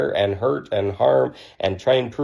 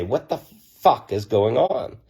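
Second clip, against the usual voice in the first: slow, punctuated WHAT THE FUCK, rising on ON; punchy jolt; slower than usual. Acted. Shaking someone out of their old beliefs, punchy jolt. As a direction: land FUCK like a whack to the chest. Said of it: "whack into your chest and say".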